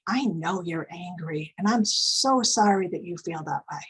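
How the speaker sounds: put-on calm empathy for an angry child; empathic calm. Shown as a demonstration. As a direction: say it gently, meaning it. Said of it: "So you can say things like".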